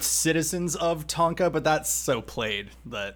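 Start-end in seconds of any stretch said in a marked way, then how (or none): 0.0-1.5 slow, pompous orator opening; grand address. Shown as a demonstration. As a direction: address the citizens like a statesman. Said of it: "I wanted to start it with".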